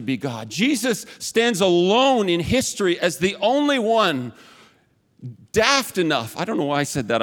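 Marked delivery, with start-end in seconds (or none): 5.5-6.4 put-on a light, offhand British accent on "daft enough", with "daft" falling; mock British accent. Pastor accidentally slipping into British slang mid-sermon, light mock British accent. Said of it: "I'm not British".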